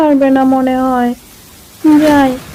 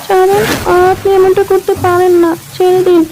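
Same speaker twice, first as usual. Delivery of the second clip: tearful pleading; 3 semitones higher than usual. Acted. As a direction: beg through tears. Woman begging to be released. (কান্নাভেজা গলায় ছেড়ে দেওয়ার মিনতি)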